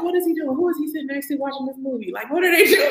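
high-pitched, nosy questioning; mock-baffled questions, pitched well up; acted puzzled alarm. Retelling watching a nephew on the daycare camera, puzzled and nosy.

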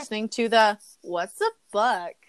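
airy ditzy bimbo sign-off. Acted. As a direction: play it like a ditzy airhead. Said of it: "I love the voice you do for that".

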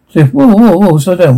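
alarmed call. Acted. Calling out to stop Cliff.

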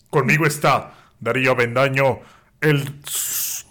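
mock-grand introduction; lightly voiced ring announcer; put-on announcer voice. Host starts the introduction over, announcer voice. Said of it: "voy a hacer otra voz".

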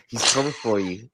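creepy voice. Acted. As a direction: lean in and menace them. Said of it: "He's creeping me out".

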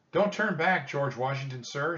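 put-on high, loud girl's plea; urgent shout. A narrator's reading. Annie urges George Washington not to turn back, shouting. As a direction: shout it to stop him turning back. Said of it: "she shouted".

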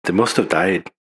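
lightly imitated Irish accent, low; mock Irish accent. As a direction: put on a jokey Irish accent. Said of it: "we're not making fun of you".

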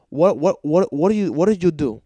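outraged shout. Retold or imitated. Plumber's outraged questions.

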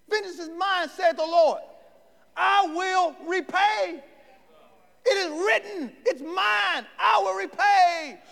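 booming scripture proclamation; divine proclamation. Acted. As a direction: declare it as God's word. Quoting God from Romans.

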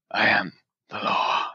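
low gravelly Dredd growl; lightly voiced gravelly lawman; gravelly Judge Dredd voice. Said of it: "this gravelly voice".

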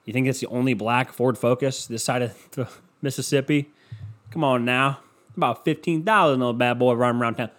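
a hint of country accent. Joking about a common car, in a light country accent. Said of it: "keep doing the country accent".

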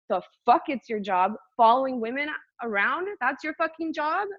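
incredulous, pitch climbing with each question; retold indignant comeback; pissed off. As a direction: challenge him in rising disbelief. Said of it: "I was so pissed".

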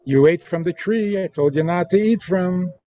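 told-you-so scolding. Shown as a demonstration. God scolding Adam for disobeying, chiding. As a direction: scold like a parent. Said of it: "Or you can say".

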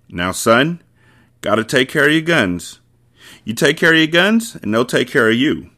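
a hint of a lecturing father; dad's voice. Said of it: "He heard his dad's voice".

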